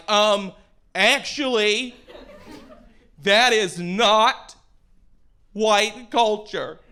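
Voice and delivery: slow, halting mock objection; upset middle-aged woman. Audience woman to comedian after the show, mock upset correction. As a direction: object word by word, lightly imitating her. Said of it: "middle-aged white women ... upset about that joke".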